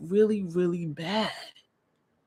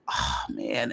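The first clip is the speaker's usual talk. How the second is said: whisper; 6 semitones lower, 8 dB quieter than usual. Retold or imitated.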